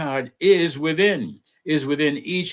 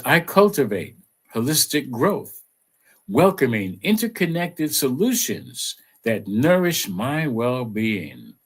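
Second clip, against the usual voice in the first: affirmation read. Acted. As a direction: recite it like a gentle mantra. Reads affirmation aloud.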